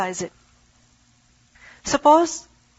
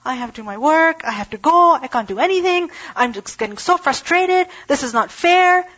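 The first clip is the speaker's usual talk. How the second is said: mock frustration climbing higher to this is not fair; impatient man ranting, building higher; frustrated complaint; 3 semitones higher than usual. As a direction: imitate an impatient man getting worked up. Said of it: "who is like".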